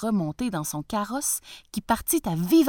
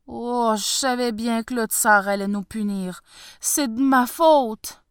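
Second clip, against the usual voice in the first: lament; 3 semitones higher, 5 dB louder than usual. Acted. Farmer laments.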